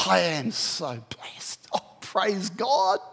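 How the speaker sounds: slow, hushed, voiceless "I am so blessed"; blissful whisper. Retold or imitated. Believer chained to an ugly guy, whispering slow praise. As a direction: breathe it out in awe. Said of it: "you can actually say".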